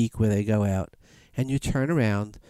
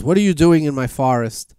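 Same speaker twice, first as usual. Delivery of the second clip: lion challenge; 7 dB louder than usual. Retold or imitated. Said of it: "the lion roars".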